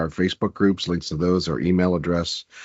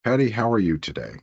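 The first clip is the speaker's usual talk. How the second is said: sick, congested voice; stuffy nose; 3 semitones higher than usual. Real, not acted. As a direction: talk through a head cold. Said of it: "I'm doing a lot better than you, from the sound of it".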